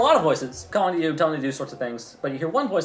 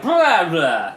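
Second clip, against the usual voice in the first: slurred spell gibberish; 2 semitones higher, 6 dB louder than usual. Acted. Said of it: "He slurs his words".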